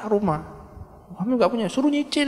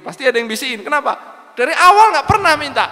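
rising suspicion; 11 semitones higher, 6 dB louder, faster than usual. Acted. Preacher voices husband's suspicion.

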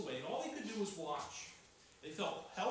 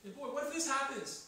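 worried inner voice; 7 semitones higher, 3 dB louder, faster than usual. Retold or imitated. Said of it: "If we're thinking".

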